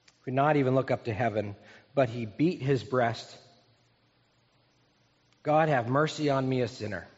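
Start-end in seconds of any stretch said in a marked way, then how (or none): 5.4-7.1 humble tax collector. Acted. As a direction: plead humbly, letting the end sink. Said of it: "That's a different tone".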